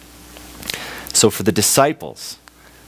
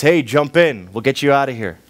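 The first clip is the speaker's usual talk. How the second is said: higher, cheery hoser calling from a canoe; a friendly Canadian shout across the water; a lightly played hoser, pitched up; 5 semitones higher than usual. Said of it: "Now a hoser ... Canadian plaid shirt".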